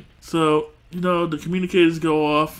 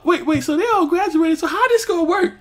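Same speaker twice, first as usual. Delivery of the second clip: much higher voice, laughing through it; can't believe it, laughing; laughing disbelief; 4 dB louder than usual. Real, not acted. Laughing disbelief about graduation.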